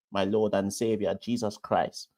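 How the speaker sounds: lightly imitated Trinidadian accent; Trini accent attempt. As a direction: another go at a Trinidadian lilt, a little imperfect. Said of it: "to mimic the Trini accent".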